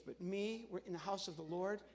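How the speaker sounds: normal talking voice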